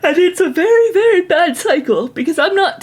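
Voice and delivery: talking through a yawn. Real, not acted. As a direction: let the yawn take over the words. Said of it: "I will start yawning".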